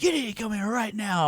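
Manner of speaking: high mock angry mom voice; mimicking a stern mom, high; mom scolding. Mom scolding son, retold.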